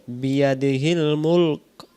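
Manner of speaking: বিয়াদিহিল মুলক recited slowly, মুলক ending clipped on the ক; slow Quran recitation, মুলক closed without a vowel; stopping at the pause. Shown as a demonstration. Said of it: "তাহলে আমরা এভাবে বলবো". (থামার সময় মুলক শেষের ক-এ স্বর ছাড়া বন্ধ করে)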